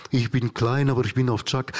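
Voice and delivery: lightly imitated pastoral singer-speaker. Comedian parodies the Dutch entertainer he admires, lightly pastoral. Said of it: "ein bisschen pastoral".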